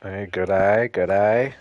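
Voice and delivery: a hint of Australian accent on good eye; playful mock Australian hello; mock Aussie greeting. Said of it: "You, you Aussies".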